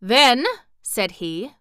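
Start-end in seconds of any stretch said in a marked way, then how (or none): 0.0-0.4 threatening. Acted. Mister Bun threatens Dorothy.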